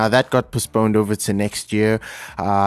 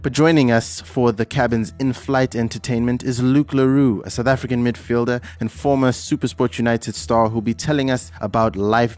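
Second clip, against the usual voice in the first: pilot announcement. Acted. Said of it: "this is your Captain Slu Paho speaking".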